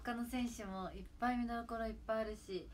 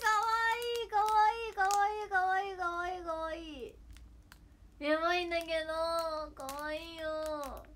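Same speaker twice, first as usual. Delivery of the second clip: high, loud squeal of delight, easing toward the end; gushing squeal; 9 semitones higher, 7 dB louder than usual. Real, not acted. Streamer gushing over a cute pull, delighted squeal. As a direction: squeal with delight, drawing out the last words.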